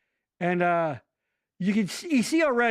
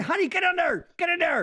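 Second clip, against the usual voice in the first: urging; 10 semitones higher than usual. Real, not acted. Urging spouse to step in.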